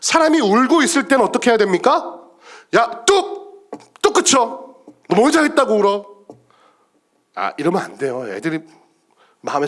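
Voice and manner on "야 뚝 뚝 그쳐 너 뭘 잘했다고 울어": high, abrupt mock telling-off; scolding parent. Parent telling a crying child to stop, scolding.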